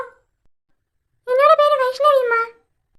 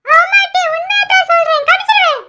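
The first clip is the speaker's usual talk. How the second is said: raised, heated bickering between sisters; hammed-up squabble, loud and high; mock angry quarrel; 4 semitones higher, 6 dB louder than usual. Sisters trading threats in a loud mock quarrel.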